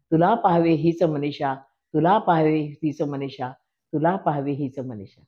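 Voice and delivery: slow, lilting poem recitation, fading on the refrain; poem recital. Acted. Reciting a love poem to an audience, slow and lilting. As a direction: recite it like a stage poem, drawing out each line.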